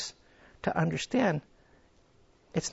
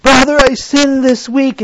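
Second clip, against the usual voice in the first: higher, slow whiny confession; mock wrong confession; 7 semitones higher, 11 dB louder, slower than usual. Believer confessing to a brother, mock whiny.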